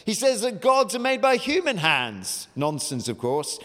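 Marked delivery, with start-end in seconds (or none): 0.0-2.5 posh voice. Acted. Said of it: "said in a, uh, posh voice, probably".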